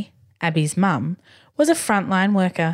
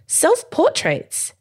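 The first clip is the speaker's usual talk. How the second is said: much higher, slow, squealing with joy; delighted squeal; 10 semitones higher, much slower than usual. Acted. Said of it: "Abby squealed with delight".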